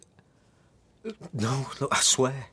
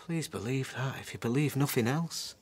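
pleading whisper; 6 dB quieter than usual. Acted. Husband begging wife to believe.

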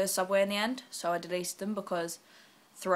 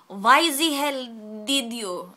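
slow, loud, higher mock outrage; mock angry email; 5 semitones higher, 11 dB louder, much slower than usual. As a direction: ham up an offended reply. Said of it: "email me later going".

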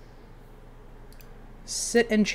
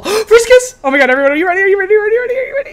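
higher and louder with each are you ready; hyped countdown; 10 semitones higher, 10 dB louder, much faster than usual. Real, not acted. Streamer rallying chat before the first kiss. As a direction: build the hype for the kiss.

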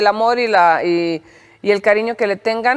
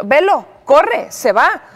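mock cheer; 5 semitones higher, 5 dB louder, slower than usual. Mock cheering him away.

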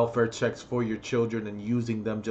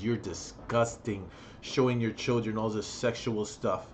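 quiet disgust; 3 semitones lower, 6 dB quieter than usual. Real, not acted. Contrasting quiet then loud disgust.

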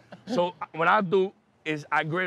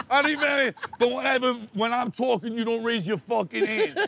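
angry threat; 4 semitones higher than usual. Retold or imitated. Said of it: "the guy's like".

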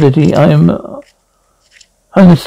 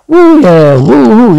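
excited cheering; 5 semitones higher, 4 dB louder, slower than usual. Acted. Cheering entrance chant.

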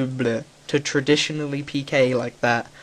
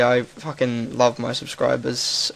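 sincere; slower than usual. Real, not acted. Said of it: "I'm saying this genuinely".

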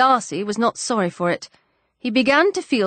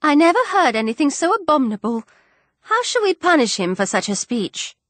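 scandalised cry; 6 semitones higher than usual. A narrator's reading. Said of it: "cried Miss Bingley".

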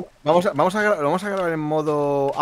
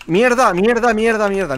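louder frustrated swearing; cursing under breath; 8 semitones higher, 7 dB louder, slower than usual. Real, not acted. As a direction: curse it out, higher and louder. Frustrated while stuck in game.

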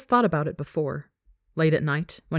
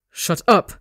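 snarling shout; 2 semitones higher, 5 dB louder than usual. Acted.

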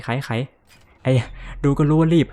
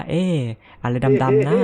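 imagined puzzled viewer. Retold or imitated. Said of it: "หลายๆคนคงน่าจะคิดว่า".

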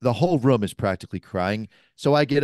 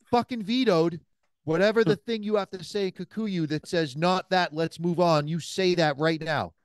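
defiant retort; 4 semitones higher than usual. Retold or imitated. Retorting defiantly at the naming ritual.

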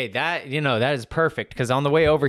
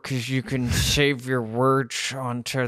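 mock comedian voice. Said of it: "take a crack at his thing".

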